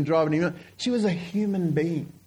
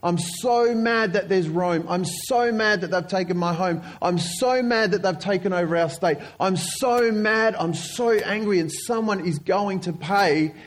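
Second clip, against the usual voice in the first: mock mob anger, insistent and a little raised; angry mob; 2 semitones higher than usual. Preacher voicing the crowd angry at Rome, mildly angry. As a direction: hammer out each grievance, drawing out the key words. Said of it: "Everyone's angry".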